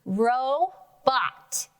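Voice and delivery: "Robot" said up and out. Shown as a demonstration. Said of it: "Say it louder".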